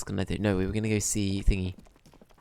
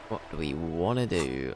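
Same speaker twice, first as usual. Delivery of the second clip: low mock-thoughtful voice; playful pondering; 4 semitones lower than usual. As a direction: drop the pitch and mull it over. Repeats the question, lower.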